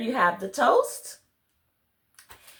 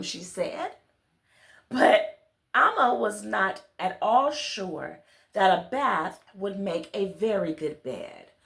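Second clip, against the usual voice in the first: put-on gentle storybook reading to children; story narration. A narrator's reading. Reader telling children a bedtime story, gentle storybook narration. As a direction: read it like a bedtime tale to little listeners. Reads picture book aloud.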